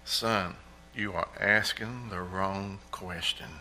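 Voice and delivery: soft, slow, steady fatherly correction; a calm dad settling his son's doubts. Retold or imitated. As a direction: gently set the boy straight. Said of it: "with his calm voice".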